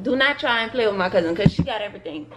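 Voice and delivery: talking with retainers in; words shaped around a retainer; wearing a retainer. Real, not acted. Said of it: "excuse how I'm talking, I got my retainers in".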